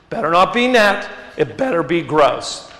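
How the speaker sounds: lightly mock the strict tithe rule; sarcastic. Shown as a demonstration. Preacher mocking his own tradition's tithing rule, lightly sarcastic. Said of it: "I hope you can hear the sarcasm in my voice".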